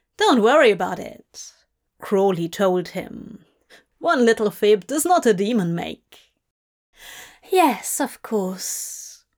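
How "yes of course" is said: wheezing in relief, much slower. Just told not to worry, he answers his companion, wheezing in relief. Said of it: "Aziraphale wheezed in relief".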